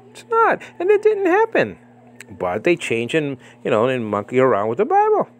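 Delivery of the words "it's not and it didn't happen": emphatic high denial. Real, not acted. Preacher denying emphatically to his audience. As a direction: hammer it home.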